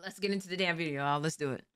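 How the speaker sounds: talking with the hiccups; hiccuping between words. Real, not acted. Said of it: "Now I got the hiccups".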